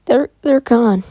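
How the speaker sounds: high, loud broken cry. Acted. Izuka tells her grandfather of her parents, crying out loud. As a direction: sob it out as the news breaks. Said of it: "Izuka starts crying and says".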